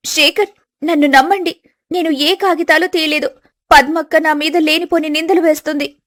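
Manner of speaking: a wronged bride pleading; young wife pleading. Acted.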